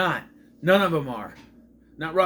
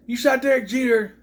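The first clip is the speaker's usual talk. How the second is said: higher, louder retold outcry; mock outraged yell; 8 semitones higher, 5 dB louder than usual. Quoting the movie's reaction to shooting Derek Jeter, mock outraged yell. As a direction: imitate someone yelling an accusation.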